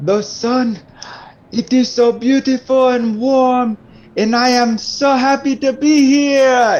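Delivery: very high, loud, ecstatic, celebratory cry of joy.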